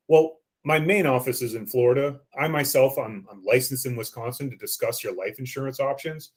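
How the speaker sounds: smooth, gentle sales reassurance. Shown as a demonstration. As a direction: sound as sincere as possible on the close. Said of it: "changing your voice, uh, sounding clean".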